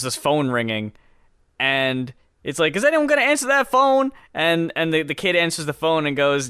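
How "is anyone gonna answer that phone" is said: higher, louder, fast mock yell; hammed-up angry father calling out; imitated yelling dad. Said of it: "this older man yelling in the background".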